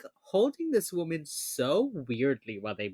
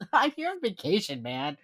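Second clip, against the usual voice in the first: breezy Elle; 5 semitones higher than usual. Retold or imitated. Elle brushing off the interrogating officer, high and breezy. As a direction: toss it off like a surfer on holiday. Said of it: "That's what Elle says".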